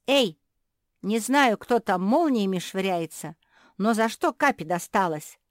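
loud, high indignant protest. A narrator's reading. Josie rushes to the hurt pug, indignant. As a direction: demand why she was hurt. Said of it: "возмутилась Жози".

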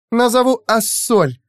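put-on high slow delighted girl voice; name the pet sweetly; girlish voice. Aurora names her new pet, high girlish delight.

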